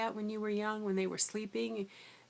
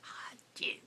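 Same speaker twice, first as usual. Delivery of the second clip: grumbling student; 8 dB quieter than usual. Retold or imitated. Student grumbles at being sent away.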